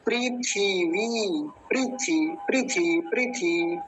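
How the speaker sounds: पृथ्वी said slowly as prithivi, each syllable clear; careful demo pronunciation. Shown as a demonstration. Teacher to students: model पृथ्वी slowly and carefully. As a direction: spell out पृथ्वी as pri-thi-vi. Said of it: "तो ध्यान से समझेंगे".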